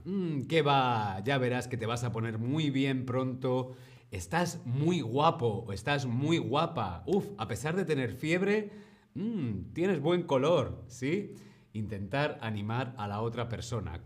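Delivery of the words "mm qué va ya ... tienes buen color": encouraging. Shown as a demonstration.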